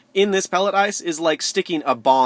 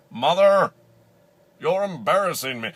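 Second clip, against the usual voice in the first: mock-exasperated child's complaint; embarrassed whine; 2 semitones higher than usual. Embarrassed child to Mother, mock exasperation. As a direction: call out, then complain like a mortified kid.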